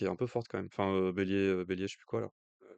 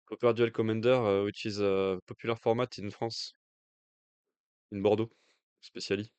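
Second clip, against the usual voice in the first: French-accented English; 4 dB louder than usual. Real, not acted. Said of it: "Vous admirez mon accent".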